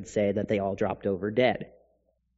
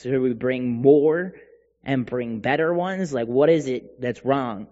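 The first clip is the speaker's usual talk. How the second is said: acted exasperated questioning, lightly sarcastic; mildly sarcastic. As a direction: press the questions with a touch of sarcasm. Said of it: "they sarcastically say this to God".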